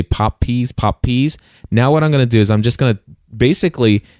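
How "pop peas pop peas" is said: P's fired straight into the mic, popping; direct plosives. Shown as a demonstration. Mic demo for listeners, speaking straight on with pops. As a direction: aim the P's dead into the capsule. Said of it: "I'm gonna stay within about two inches of this microphone, and I'm gonna say".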